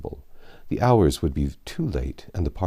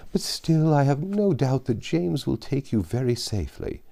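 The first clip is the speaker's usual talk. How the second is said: put-on higher, fussy elderly gentleman voice; fretful old father; 5 semitones higher than usual. Anxious father worrying over Emma dining out, fretful old voice. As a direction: fret over late hours and damp air like an anxious old man.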